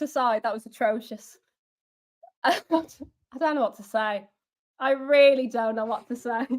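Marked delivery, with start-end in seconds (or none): 2.4-4.3 slow, helpless laugh through the words; laughing in disbelief. Real, not acted. Fan laughing off a humiliating defeat, helpless laughter. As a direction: laugh it off so you don't cry. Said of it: "I'm laughing because if I don't laugh".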